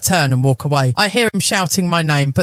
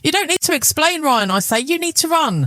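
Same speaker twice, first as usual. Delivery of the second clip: calm menacing; 10 semitones higher than usual. Acted.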